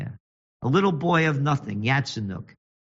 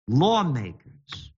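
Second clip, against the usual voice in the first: mocking sneer; much slower than usual. Real, not acted. Mocking repeat of word.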